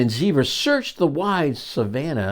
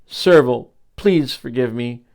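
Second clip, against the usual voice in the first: blurted; 5 dB louder, slower than usual. Acted. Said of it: "Then Dog blurted".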